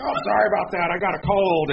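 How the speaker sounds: a casual, half-hearted sorry from a sick customer; mock sheepish lady. Pastor imitating the coughing lady at the counter, mock sheepish.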